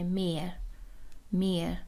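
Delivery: "مر" with a stretched vowel and no h; lengthened vowel, silent h. Shown as a demonstration. Teacher demonstrating German mehr to learners, "مر" with long e, silent h. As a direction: draw out the e of "مر", leaving the h silent.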